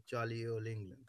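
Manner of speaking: lightly faked Cockney accent; a bit of Dick Van Dyke-ish Cockney; mock Cockney, badly faked; put-on Cockney. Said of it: "you've got to drop that Cockney accent".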